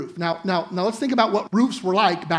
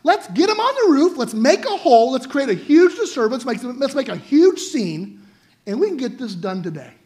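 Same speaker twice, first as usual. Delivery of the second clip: excited plotting; 4 semitones higher, 3 dB louder than usual. Pretend. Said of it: "These guys like".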